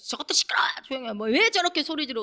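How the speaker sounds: half-voiced irritated telling-off; mock angry scolding. Priests and scribes telling the children to be quiet, mock scolding. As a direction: imitate scolding without full volume. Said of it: "막 소리 지르고 호통을 치고".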